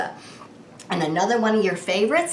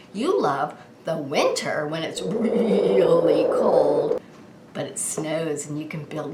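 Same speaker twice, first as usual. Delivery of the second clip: whispering; 4 semitones lower than usual. Acted. Cold winter, whispered.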